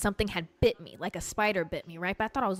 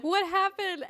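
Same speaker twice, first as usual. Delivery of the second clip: mom asking; 12 semitones higher than usual. Retold or imitated. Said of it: "she's like".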